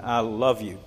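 "love" stressed, gentle and falling; fatherly "I love you"; tender I love you. Shown as a demonstration. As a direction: say it to your child. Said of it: "to say often to our children".

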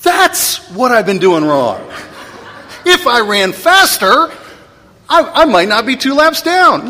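hammed-up kid voice with laughter; mock kid realizing. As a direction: play the dim kid having a ridiculous revelation. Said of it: "the kid's gonna stop and go".

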